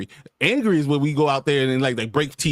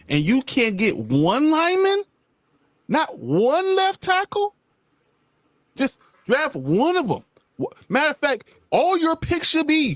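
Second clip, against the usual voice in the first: mock exasperated rant; 6 semitones higher than usual. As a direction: climb higher as the frustration builds. Ranting at the Bengals' front office.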